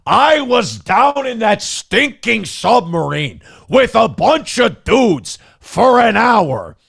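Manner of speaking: high, slow puppet frog voice; drawn-out high frog puppet voice; Kermit the Frog. Pretend. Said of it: "That's a good Kermit the Frog impression".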